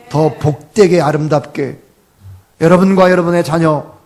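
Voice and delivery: loud, forceful blessing from the pulpit; fervent preaching. Real, not acted. Pastor promising blessing to congregation and children, loud and fervent. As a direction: proclaim it at full volume.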